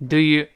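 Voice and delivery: "do you" run together as one light unit; glided over lightly. Shown as a demonstration. Teacher shows linking to learners, "do you" lightly glided over. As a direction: pass over "do you" without stressing either word. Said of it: "do you一带而过".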